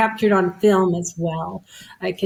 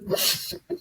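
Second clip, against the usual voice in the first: angel laughing; 9 dB quieter than usual. Retold or imitated. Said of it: "he's cracking up".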